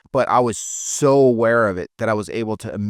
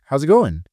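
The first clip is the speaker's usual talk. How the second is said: beggar greeting, GOING pitched higher; upward inflection; 4 semitones higher, 4 dB louder than usual. Shown as a demonstration. Trainer demonstrating the beggar's greeting, upward inflection. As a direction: lift "going" up, seeking approval. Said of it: "Upward inflection".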